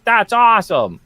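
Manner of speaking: loud, high cheering praise; mock enthusiasm. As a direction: exclaim it like an impressed fan. Acting out an admirer's reaction.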